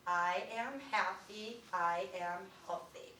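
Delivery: slow, each syllable spaced out; slow, deliberate affirmation. Shown as a demonstration. Teacher leading a class in slow affirmation. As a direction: say it slowly, one syllable per finger. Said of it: "we're gonna say this together out loud".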